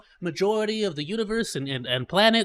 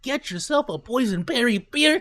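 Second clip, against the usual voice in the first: usual speaking voice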